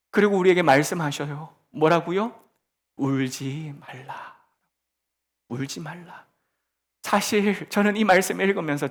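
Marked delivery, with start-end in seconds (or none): 3.0-6.2 tender. Acted. Jesus's words voiced softly, slowly.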